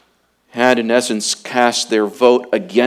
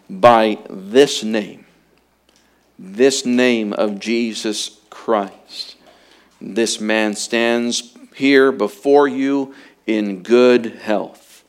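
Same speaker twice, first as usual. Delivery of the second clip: slow, weighty, every word pressed; emphatic, slow quote; slower than usual. Retold or imitated. Preacher quoting Peter, slow and emphatic. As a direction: lay down "By this name" slowly. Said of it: "Notice how emphatic Peter is".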